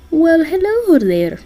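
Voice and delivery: put-on high, loud, slow Russian-accented greeting; hammed-up Russian Santa greeting; bad Russian accent. Santa surprising Jack and Listener, bad Russian accent. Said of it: "I'm terrible at doing a Russian accent".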